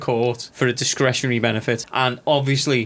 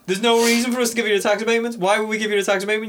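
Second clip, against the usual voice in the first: laughing mock protest; 6 semitones higher, faster than usual. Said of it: "She was the person who was saying".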